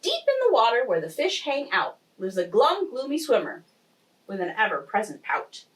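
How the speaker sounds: lilting rhymed storytelling; expressive story-time reading; picture-book narration. A narrator's reading. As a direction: read the rhyme aloud to young children. Reads picture book aloud.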